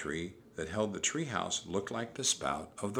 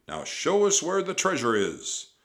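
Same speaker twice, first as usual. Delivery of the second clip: loud, raised pirate voice; Captain Bones; 9 semitones higher, 7 dB louder than usual. A narrator's reading. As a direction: order them about roughly. Captain demands the treasure.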